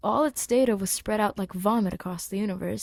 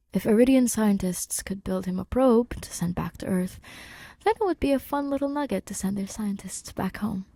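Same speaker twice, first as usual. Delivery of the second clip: whispered narration. A narrator's reading.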